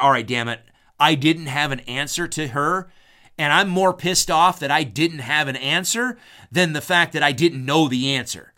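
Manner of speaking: hammed-up annoyance at losing the argument; mock frustrated brother. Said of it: "be like".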